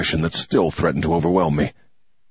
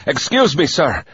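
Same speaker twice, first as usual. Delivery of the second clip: breathless gasp, higher; 6 semitones higher than usual. Acted. Breathless lie to the major, gasping. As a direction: gasp it out, winded from running up. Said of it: "I gasped".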